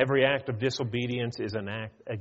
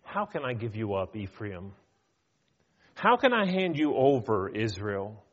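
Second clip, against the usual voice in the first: God pleading; 3 semitones lower than usual. Retold or imitated. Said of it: "He says".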